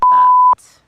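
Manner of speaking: a high, loud yelp of dread; panicked exclamation. Real, not acted. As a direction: blurt it out in panic. Sudden panic realization.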